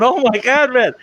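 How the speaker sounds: high mock panicked yell; imitating a brother screaming at a fan; retold screaming. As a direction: replay the brother's shriek, half-hammed. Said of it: "he starts screaming".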